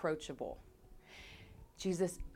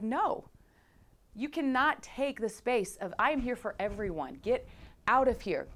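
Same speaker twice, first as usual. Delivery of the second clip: Jesus's rebuke; 4 semitones higher than usual. Retold or imitated. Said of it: "And he was like".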